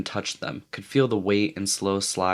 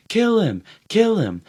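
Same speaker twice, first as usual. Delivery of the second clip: higher, louder, carried away; frenzied; 13 semitones higher, 5 dB louder than usual. A narrator's reading. Ralph jabbing at Robert, frenzied yell. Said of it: "carried away by a sudden thick excitement".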